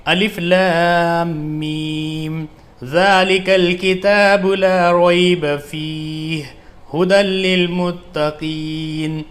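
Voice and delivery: slow, melodic tajweed recitation; smooth Quran recitation. Shown as a demonstration. Teacher reciting for students in slow melodic tajweed. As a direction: recite it flowing and drawn out. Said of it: "اب اس کو ملا کر ہم ایسے پڑھیں گے".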